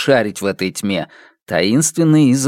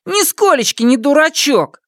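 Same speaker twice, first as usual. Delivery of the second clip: defensive; 14 semitones higher than usual. Acted. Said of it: "защищался я".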